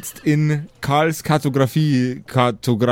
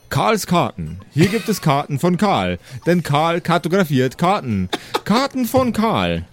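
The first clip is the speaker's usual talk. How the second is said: reading the sign in a lightly sing-song voice, rising higher; 5 semitones higher than usual. Acted. GM reading the shop sign aloud to the player, lightly sing-song. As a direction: announce it like a shop slogan. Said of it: "hölzernes Schild".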